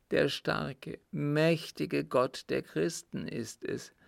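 measured, heavy-hearted dread; tormented dying father. Acted. Father telling his son of God's judgement, tormented. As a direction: refuse comfort, fearing the judgement.

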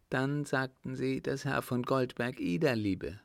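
a hint of a demanding older lady; countess. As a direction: countess pressing him for answers. Countess presses on.

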